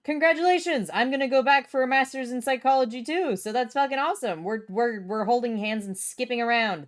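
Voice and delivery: high, loud burst of delight; excited congratulations. Real, not acted. Streamer congratulating viewer on psychology program, excited. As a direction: gush over their news, pitch up. Reacts to viewer's college acceptance.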